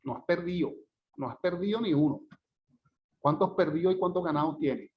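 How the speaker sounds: "perdido" como "perdío", "ganados" como "ganaos"; d desaparecida. Shown as a demonstration. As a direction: deja caer la d entre vocales en "perdido" y "ganados". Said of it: "cómo el sonido desaparece". ("perdido" y "ganados" sin su última d)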